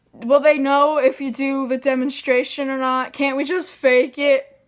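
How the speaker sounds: imitating an aunt talking too loud on the phone; aunt saying it loud. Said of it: "she says really loud".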